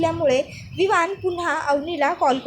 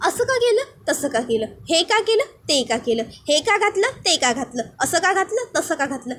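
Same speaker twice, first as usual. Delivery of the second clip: mocking singsong. Avani mocking Vivan's nagging in singsong. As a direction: mimic his nagging, up then down.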